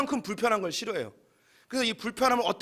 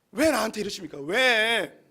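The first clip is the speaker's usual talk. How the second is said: louder, higher, indignant complaint; sulking Jonah yelling at God that he is right; Jonah's angry protest; 4 semitones higher, 6 dB louder than usual. Acted. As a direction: play Jonah shouting back at God. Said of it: "뭐라고 이야기하면".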